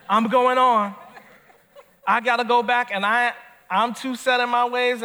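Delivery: sassy Naomi. Acted. Preacher playing Naomi telling her daughters-in-law to go home, loud and sassy. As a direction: send the girls off with comic bluntness.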